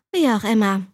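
growled sister voice; deep rasping growl. Acted. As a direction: growl it out, dismissive. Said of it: "setzte sie mit knurriger Stimme an".

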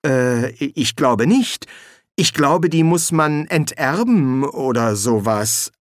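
hesitant, slow, unconvincing answer; halting, half-hearted guess; lame reply. Acted. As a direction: grope slowly for an answer, unsure. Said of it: "antwortete Viktor ziemlich lahm".

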